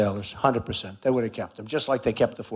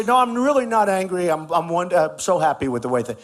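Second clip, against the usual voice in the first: raised, louder sarcastic reply; mock denial; 4 semitones higher, 4 dB louder than usual. Mocking critics who want him to deny anger. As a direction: sneer a forced cheerful denial. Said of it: "they wanted me to say".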